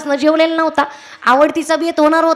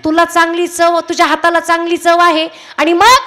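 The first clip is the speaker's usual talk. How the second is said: eager. Retold or imitated. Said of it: "एवढा उत्साहानं तो तिला सांगत होता".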